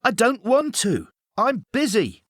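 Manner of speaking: a kid caught out, playing it cool; child voice. A narrator's reading. Boy hiding under covers answers his mum, high child voice.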